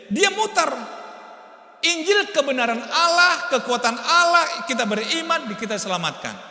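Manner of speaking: rising sermon fervor; fervent preaching. Acted. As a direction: proclaim it like a revival preacher. Preaching climax.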